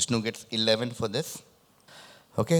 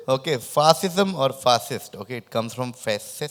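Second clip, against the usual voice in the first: lisp. Real, not acted. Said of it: "sorry for my lisp".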